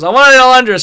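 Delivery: high, loud retold complaint; mock whining. Retells Shelly's complaint about figure.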